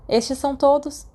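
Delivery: brusque, protective of her books. A narrator's reading. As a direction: clip it off like a strict librarian. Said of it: "ela disse bruscamente".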